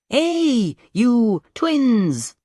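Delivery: high, loud shout across the room. A narrator's reading. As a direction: call out loudly. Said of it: "much closer shout".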